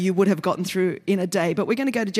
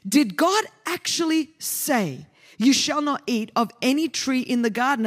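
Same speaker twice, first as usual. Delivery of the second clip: sly serpent; 3 semitones higher than usual. Acted. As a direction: tempt her gently like a hinted snake. Serpent voiced in scripture reading.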